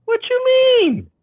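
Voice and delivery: high, very slow puzzled question; mock surprise. Asked if he deer hunts, very slow high mock puzzlement. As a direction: stretch it out, playing confused.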